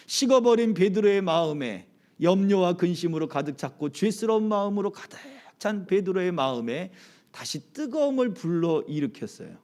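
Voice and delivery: ordinary talk, nothing marked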